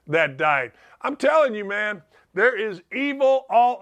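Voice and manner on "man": usual speaking voice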